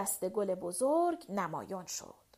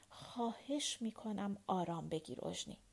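low, much softer and earnest; quiet and serious; 3 semitones lower, 11 dB quieter than usual. A narrator's reading. Napoleon calmly quieting Eugénie outside the door. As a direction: hush her gently but gravely. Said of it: "با قیافهٔ جدی آهسته گفت".

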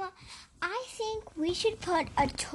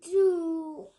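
slow, gasped despair; gasping dismay; 4 semitones higher, much slower than usual. Acted. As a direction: gasp and despair. Child voices the upset turkey.

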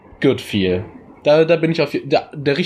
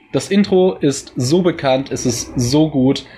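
gushing; 3 semitones higher, slower than usual. Real, not acted. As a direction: build up the praise, slowing on Kult. Raving about the intro.

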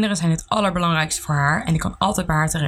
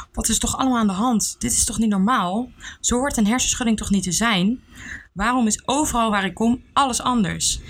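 anxious questioning; 4 semitones higher than usual. Acted. Panicked questions after crying.

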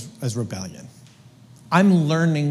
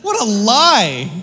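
mocking; 3 semitones higher, 4 dB louder, slower than usual. Real, not acted. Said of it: "you have to mock it".

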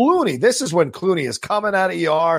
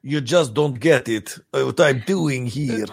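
lightly voiced aggrieved actor, slow delivery; slowly, a hint of a defensive performer; Branagh; slower than usual. Actor answering his critic, lightly put-on slow voice. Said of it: "if Branagh heard your criticism, he'd be like".

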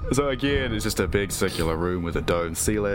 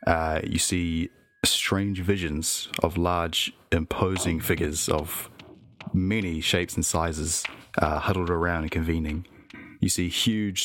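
story narration. Acted. GM narrates vision.

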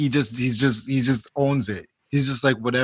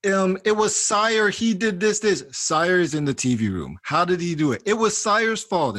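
lightly voiced child, higher-pitched excuses; blame-shifting kid; 6 semitones higher than usual. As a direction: pin it on your brother in a higher voice. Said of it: "He's like a blamer".

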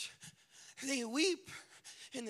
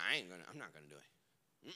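Peter protesting; 8 dB quieter than usual. Acted. Peter protests his denial.

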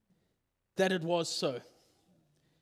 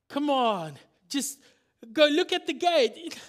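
insistent plea; 4 semitones higher, 5 dB louder than usual. Acted. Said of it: "But she goes".

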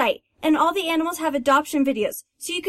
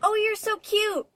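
higher-pitched, adoring coo; cooing at dog; 5 semitones higher than usual. Acted. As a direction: coo sweetly over a new pet. Girl coos at her new dog.

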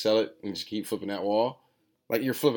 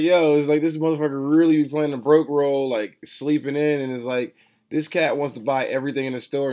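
loud, higher-pitched imitation of an incredulous onlooker; loud mock outrage; 6 semitones higher, 8 dB louder than usual. Store owner imitating people baffled by his broke act, loud incredulous mimicry. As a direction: call him out loudly, imitating a baffled friend. Mimics someone complaining about him.

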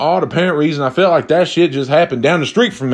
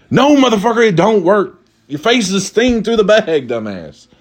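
pitched-up scolding rant at the robber; high mocking rant; 6 semitones higher than usual. Real, not acted. Ranting at the robber.

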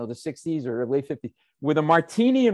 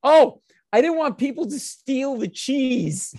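higher, slow mock mother explaining; mother's innocent excuse; 8 semitones higher, 4 dB louder, slower than usual. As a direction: imitate mom as if it's perfectly reasonable. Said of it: "this is what she goes".

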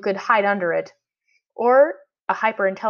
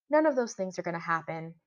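soft, even and unbothered; maddeningly calm; 9 dB quieter than usual. A narrator's reading. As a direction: stay infuriatingly calm. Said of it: "so calmly that it was maddening".

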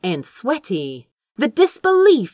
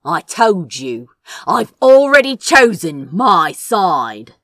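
firm refusal; 3 semitones lower, 5 dB louder than usual. Acted. Crow defiantly refusing Lord Beals.

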